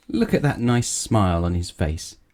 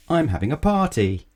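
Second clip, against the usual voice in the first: excited; 7 semitones higher than usual. Acted. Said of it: "she cried".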